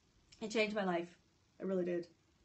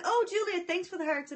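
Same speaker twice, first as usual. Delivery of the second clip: higher-pitched, imitated Australian accent; cute Australian accent; 6 semitones higher, 4 dB louder than usual. Streamer mimicking a viewer's thanks, cute Australian accent. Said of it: "in her cute little Australian accent".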